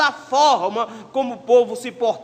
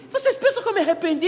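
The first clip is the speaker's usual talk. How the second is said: laughing, higher and quick; amused scoff; 10 semitones higher, faster than usual. Acted. God laughing off the people's idea, amused.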